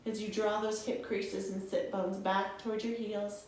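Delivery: guided yoga voice. Acted. Yoga teacher guiding students through poses, soothing. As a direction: talk the class through each breath calmly.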